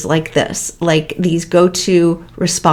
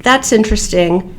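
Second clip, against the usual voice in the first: flat, no emotion; 3 dB quieter than usual. Shown as a demonstration. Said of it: "with hardly any emotion".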